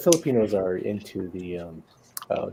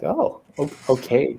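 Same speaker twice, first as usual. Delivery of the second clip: higher, hesitant retold okay; puzzled acceptance; 4 semitones higher, 3 dB louder than usual. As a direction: mildly act out being caught off guard. Retold puzzled reply to shop worker.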